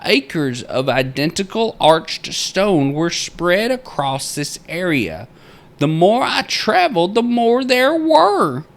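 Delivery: high, loud-edged theatrical proclaiming; old-time miner's journal. Acted. Narrator reading the miner's journal entry aloud, theatrical miner voice. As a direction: read it out like a grandiose frontier diarist.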